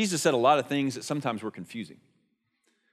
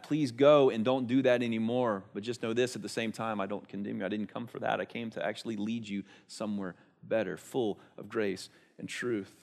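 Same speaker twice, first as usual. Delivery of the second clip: soft, tender reassurance to the woman; gentle Jesus; 2 semitones lower, 4 dB quieter than usual. Retold or imitated. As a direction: speak as Jesus quietly comforting her, slowing at the end. Jesus voiced speaking gently to woman.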